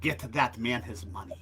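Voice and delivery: mock Russian accent, hammed up like John Malkovich; a deliberately terrible Russian accent; bad Russian accent. Host mimics Malkovich's bad Russian accent from Rounders. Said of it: "does the worst Russian accent".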